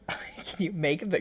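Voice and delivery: soft unvoiced whisper. Real, not acted. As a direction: breathe the words, no voice. Echoing a question, whispered.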